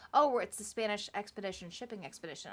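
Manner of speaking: fast run through a clunky name; rattled-off mock quote. Podcaster mocking the Spanish expedition's name, rattled off. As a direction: rattle off the silly title.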